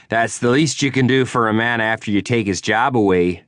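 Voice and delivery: a touch of wounded anger; bitter rival. Acted. Prudell blaming McKnight for losing his job, bitter.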